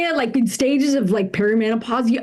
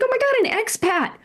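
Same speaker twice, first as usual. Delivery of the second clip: mock excitement; 8 semitones higher than usual. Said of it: "I got excited".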